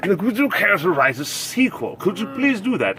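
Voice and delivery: lightly hammed-up publisher pleading. Publishers pleading with Tolkien for a sequel, publisher voice. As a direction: coax like a put-on publisher. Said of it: "that's the publisher voices".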